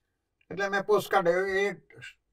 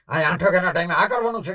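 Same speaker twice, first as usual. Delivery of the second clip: fast, louder indignant complaint; angry outburst; 6 dB louder, faster than usual. Retold or imitated. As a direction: fume at the empty hall. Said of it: "એટલા લાલ થઈ ગયા".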